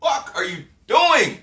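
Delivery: slow, laughing disbelief; incredulous mock confrontation. Mocking someone who drags you back, slow and laughing. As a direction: drag it out like you can't believe them. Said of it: "I'll be like".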